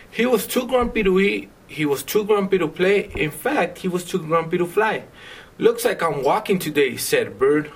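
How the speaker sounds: lilting picture-book narration with measured pauses; reading to children. A narrator's reading. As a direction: read it aloud to a child, line by line.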